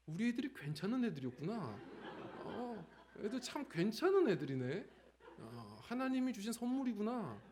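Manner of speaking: chuckling with delight at the gift; happy laughing thought. Retold or imitated. Father laughs as he recalls his kids' gift. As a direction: laugh as you relive the relief. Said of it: "이런 생각이 막 드는 거예요".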